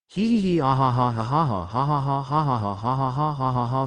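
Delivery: long read-out string of hee-hees and ha-has; mock maniacal laugh, spoken as syllables; madman laugh. A narrator's reading. Izuku tied to a chair before his captors, mock mad laughter. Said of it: "while laughing like a madman".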